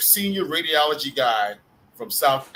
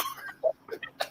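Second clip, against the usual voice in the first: very high, quieter wheeze of laughter; squealing laugh; 9 dB quieter than usual. Real, not acted. Storyteller amused by his own punchline, high squealing laugh. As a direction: crack up into a high thin squeal.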